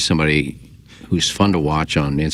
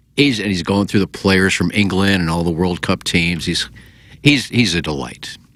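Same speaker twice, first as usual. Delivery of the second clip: usual speaking voice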